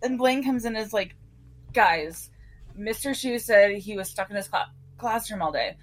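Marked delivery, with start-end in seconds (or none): 1.7-5.8 talking through the hiccups; hiccuping between words. Real, not acted. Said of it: "So, I have the hiccups".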